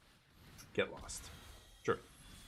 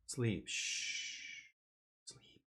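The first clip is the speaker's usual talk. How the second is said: softer whispered shush; whispered hush; 2 semitones higher, 7 dB quieter, much slower than usual. Real, not acted. Streamer to his sleepy dog, soft whispered shush. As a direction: hush him back to sleep.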